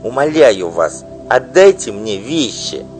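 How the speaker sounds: loud, high desperate begging; pleading wife. Acted. Wife imploring the singer, desperate loud pleading. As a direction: beg her with all her strength.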